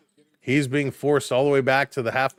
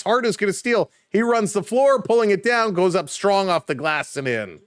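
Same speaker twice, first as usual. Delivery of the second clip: excited play-by-play; 5 semitones higher than usual. Real, not acted. Fast break call.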